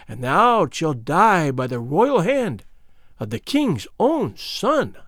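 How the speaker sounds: hateful mockery. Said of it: "in her hateful tone of mockery".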